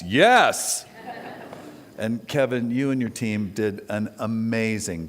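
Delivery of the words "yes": loud excited yes; all caps yes. Retold or imitated. Answering the invitation with an all caps yes. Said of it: "I just replied in all caps".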